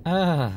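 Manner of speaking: high "uh" of frustration; short groan of giving up; frustrated groan. Real, not acted. Frustrated by the unaffordable price.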